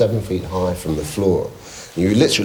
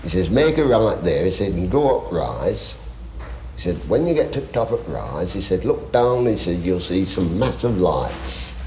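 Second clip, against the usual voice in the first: put-on Yorkshire accent. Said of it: "excuse the accent".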